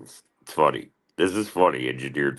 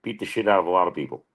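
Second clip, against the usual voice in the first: higher, quicker mock voice; mock agreeing; 6 semitones higher than usual. Answering Joe on the show, quick high mock agreement. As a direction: toss it off fast and pitched up. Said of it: "I'd be like".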